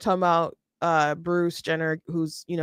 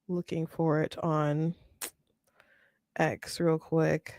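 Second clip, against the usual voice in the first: whisper; 3 semitones lower, 10 dB quieter, slower than usual. Real, not acted. Muttering while searching for clip.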